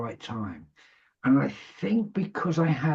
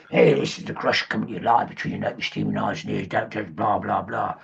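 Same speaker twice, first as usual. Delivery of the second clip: lower, fast hammed-up late-night DJ patter; radio DJ Crusher voice; 5 semitones lower than usual. On air to his listeners, introducing himself: lower, fast DJ voice. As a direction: roll out a slick DJ spiel, a touch lower. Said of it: "So I did this Crusher voice".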